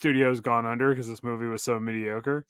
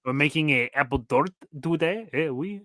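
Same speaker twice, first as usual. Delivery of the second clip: bad French accent; 3 semitones higher than usual. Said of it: "bad French accent".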